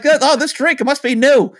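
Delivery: a hammed-up gullible voice; naive excitement. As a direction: play the clueless happy customer. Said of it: "I was like".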